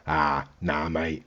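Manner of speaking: low, very soft brush-off; quiet, laid-back refusal; cool, unbothered. Retold or imitated. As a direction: casually imitate someone totally unfazed, voice dropped right down. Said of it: "the English guy is cool as fuck".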